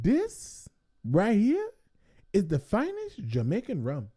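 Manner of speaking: guy showing off rum to tourist; mock proud local. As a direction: lean into the words like a salesman.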